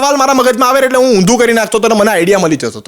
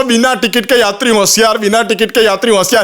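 station announcement. Retold or imitated. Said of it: "announcement કરો છો".

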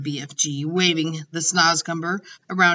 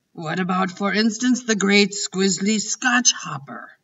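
put-on a big gentle giant teasing the girl's doubt; BFG. The giant chiding Sophie, lightly voiced and amused.

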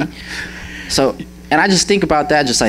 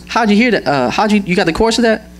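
high, amazed question; amazed mom; 8 semitones higher, faster than usual. Retold or imitated. Mom amazed her son picked up the song. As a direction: sound like a stunned mother. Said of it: "And she goes".

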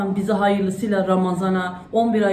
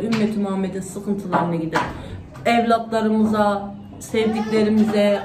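earnest prayer. Acted. Mother praying aloud for family and all believers, fervent supplication. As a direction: pray aloud, pleading with God line by line. Leads a spoken dua.

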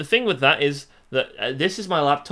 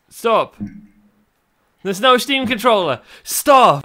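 annoyed stop; 5 semitones higher, 8 dB louder, slower than usual. Real, not acted. Yelling at popup.

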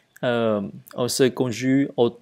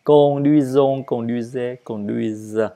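"conduisons, conduisez, conduisent" with evenly weighted syllables; "conduisons, conduisez, conduisent" as an even drill, easing off; no word stress. Shown as a demonstration. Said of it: "c'est la même chose".

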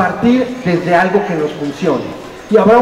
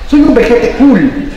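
presumido, con humor; 3 semitones higher, 5 dB louder, slower than usual. Real, not acted. Presume ser vejete cool.

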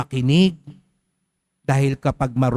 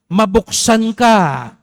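proclaimed command; 4 semitones higher, 5 dB louder, much slower than usual. Shown as a demonstration. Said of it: "Sabihin mo nga sa katabi mo".

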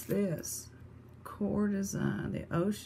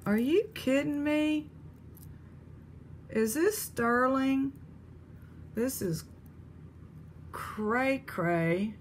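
higher, delighted disbelief; amazed; 5 semitones higher, slower than usual. Real, not acted. Spotting a jewelry piece, higher in amazed disbelief.

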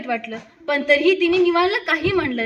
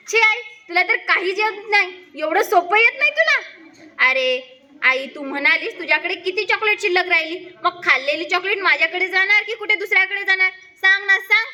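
higher, teasing a mother who can't do sums; cheeky boy; 3 semitones higher than usual. Acted. Smug little boy, high and teasing. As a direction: son mocks his mother's simple maths, cheeky and pitched up.

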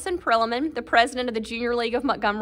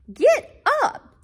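wake-up call; 12 semitones higher than usual. Acted. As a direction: shout them awake. Waking the dogs.

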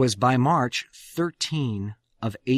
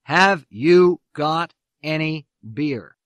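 mock resonant voice; 2 semitones higher, 4 dB louder, slower than usual. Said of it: "in a deep, resonant voice".

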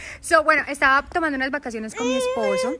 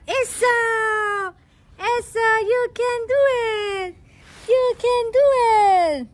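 high, loud, slow, straining encouragement; excited cheering; 11 semitones higher, 6 dB louder, slower than usual. Real, not acted. Mom rooting for Milan to crawl, high and loud. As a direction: stretch it out, rooting hard.

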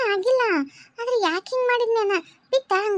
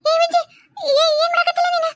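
possessed spirit voice; 8 semitones higher, 4 dB louder than usual. Acted. Possessed wife calls her own name, eerie and high. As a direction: call out like something has taken over her.

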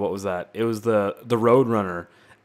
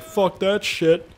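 slow, high, lightly voiced cop; lazy cop voice; 8 semitones higher, much slower than usual. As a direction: drag it out like a bored cop. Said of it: "Canadian cops be like".

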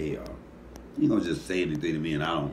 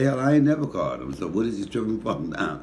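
imitating his dad; 3 semitones higher, 4 dB louder than usual. Mother repeats dad's complaint, son voices dad loudly. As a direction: play the gruff old father, pitched up and loud. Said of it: "My dad don't even talk like that".

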